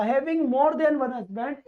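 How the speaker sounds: slow, deliberate read-aloud; slow dictation. Shown as a demonstration. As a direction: read very slowly, word by word. Teacher reads phrase slowly.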